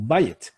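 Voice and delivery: "바에트" stressed on its first syllable, 바, with a light ending; penultimate stress. Shown as a demonstration. Teacher showing a Hebrew exception, "바에트" stressed before the last syllable. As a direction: hit 바 in "바에트". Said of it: "강세가 여기 있습니다".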